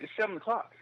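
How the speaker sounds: high-pitched insistent latecomer; retold protest. Latecomer answering the club manager, protesting. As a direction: imitate someone insisting he is on time.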